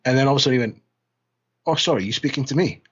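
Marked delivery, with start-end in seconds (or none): 1.7-2.8 higher, lightly mocked French accent; half-hearted French accent impression; crappy French accent. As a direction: imitate a Frenchman with a poor accent. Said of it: "crappy little French accent".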